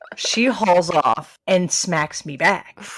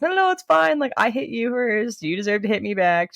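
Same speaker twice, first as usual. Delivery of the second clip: high reassurance; 6 semitones higher than usual. Retold or imitated. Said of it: "I was like".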